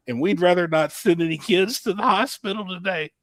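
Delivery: lightly voiced announcer laying it on thick; announcer hamming it up. Imitating Jamie scaring parents over the mic, a mild ham. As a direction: pour on the drama of the warning. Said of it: "really pouring it on".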